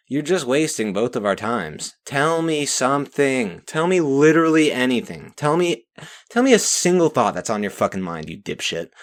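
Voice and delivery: real rising irritation; getting angry. Real, not acted. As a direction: demand an answer, fed up. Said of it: "I'm sorry, I'm getting angry".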